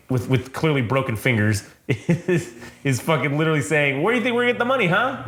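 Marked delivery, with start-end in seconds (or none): 4.0-5.2 mock menacing thug. Kidnapper snapping at accomplice.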